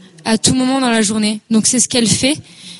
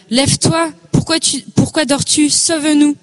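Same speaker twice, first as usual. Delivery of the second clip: higher-pitched urgent entreaty, almost like swearing; vigorous pleading prayer; 5 semitones higher than usual. Retold or imitated. Speaker quoting psalms that plead with God, vigorous entreaty. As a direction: call on God insistently, pitched up. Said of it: "qui signifie une prière, euh, vigoureuse, presque sur le mode du jurement".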